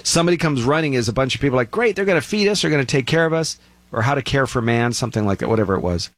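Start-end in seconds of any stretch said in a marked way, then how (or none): 1.7-3.6 lightly hammed-up eager cheer, pitched higher; mock excited crowd. Crowd greeting the aliens, mock excited cheer. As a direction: play the gullible crowd, half-mocking.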